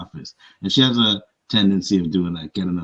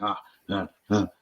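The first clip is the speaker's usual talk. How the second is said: softer imitated huffs; huffing and puffing; 4 dB quieter than usual. Coworker when someone makes a deal, mock huffing under her breath. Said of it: "huffing and puffing".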